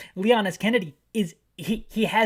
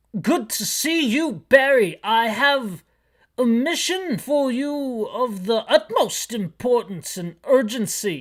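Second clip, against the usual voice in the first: put-on character voice, neither male nor female; 4 semitones higher, 4 dB louder than usual. Reading a scene aloud, the speaker gives the Chief's lines in the Chief voice. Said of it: "This is the Chief voice".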